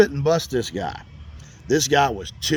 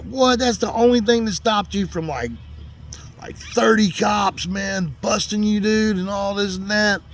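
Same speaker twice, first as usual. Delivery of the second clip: higher-pitched retold astonishment; amazed disbelief; 5 semitones higher than usual. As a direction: react amazed, pitch lifted, re-enacting it. Retold amazed reaction to wrong address.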